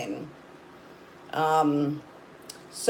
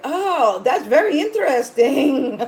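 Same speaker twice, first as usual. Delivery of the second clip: higher, louder imitation of an intrigued clerk; store clerk; 7 semitones higher, 5 dB louder than usual. Counter guy hears the recipe, high intrigued imitation. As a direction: mimic the fascinated counter guy, amused. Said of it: "the guy at the counter".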